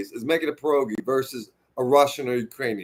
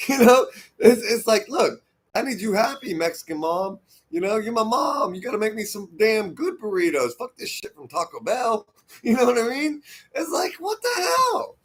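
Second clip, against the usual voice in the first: high, laughing, half-joking plea; 8 semitones higher than usual. Real, not acted. Asking Mexican mom for burritos, high and laughing.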